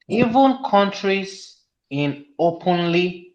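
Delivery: slow reading with "openly" drawn out; stress on openly. Real, not acted. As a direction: lean on the word "openly", syllable by syllable. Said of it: "I emphasize on the word openly".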